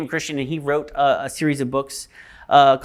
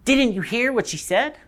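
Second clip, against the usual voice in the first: high, restrained disbelief; disbelieving; 6 semitones higher than usual. Acted. Polly questions Diggory's choice, restrained disbelief. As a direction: ask it high but held back, incredulous.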